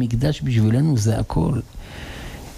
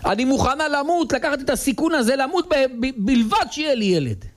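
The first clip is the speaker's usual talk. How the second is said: pleading dying wife. Acted. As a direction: beg for the child with everything.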